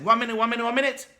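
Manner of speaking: sudden excitement. Acted. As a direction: stop everyone, something just changed.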